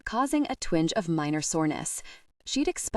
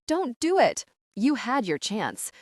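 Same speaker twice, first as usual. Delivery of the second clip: panicked protest; 5 semitones higher than usual. Acted. Heroine pinned to the bed by Travis, squealing protest. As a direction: beg him to stop, voice jumping up.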